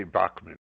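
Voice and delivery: Bachman said as BOCK-man with an ah vowel; American pronunciation. Shown as a demonstration. Telling how Americans say his name, BOCK-man. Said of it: "in the States, they say".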